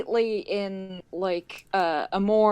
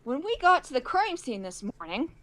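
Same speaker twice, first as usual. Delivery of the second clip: composed, slightly raised pitch; very calm voice; 4 semitones higher, 3 dB quieter than usual. Acted. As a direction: start recounting the day very calmly. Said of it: "in a very calm voice".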